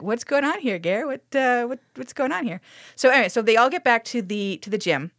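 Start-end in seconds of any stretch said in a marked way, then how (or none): 0.0-2.6 put-on boyfriend voice. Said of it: "the boyfriend is like".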